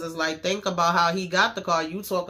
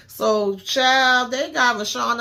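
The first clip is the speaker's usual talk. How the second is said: excited; 6 semitones higher, 8 dB louder, slower than usual. Real, not acted. Bursting into the next scene.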